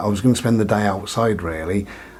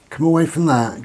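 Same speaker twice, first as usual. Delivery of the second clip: higher, sharp call to the dog; telling off dog; 6 semitones higher than usual. Real, not acted. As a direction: call the dog away firmly.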